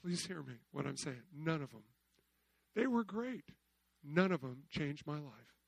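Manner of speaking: soft, low pleading; hushed earnest plea. Real, not acted. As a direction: say it quietly so they lean in.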